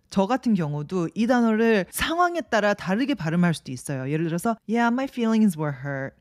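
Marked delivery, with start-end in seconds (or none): 4.7-6.1 feelings swallowed quickly mid sentence; slurred past. Shown as a demonstration. Teacher showing casual reduced feelings. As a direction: let feelings slip by in passing. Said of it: "훅 지나가면서".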